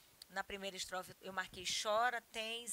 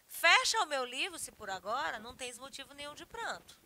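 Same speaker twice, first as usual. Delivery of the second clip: emphatic verse reading, opening higher and louder; poem recitation; 3 semitones higher, 6 dB louder than usual. Acted. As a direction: recite it, strong at the start then easing. (declamação de poema, começo enfático)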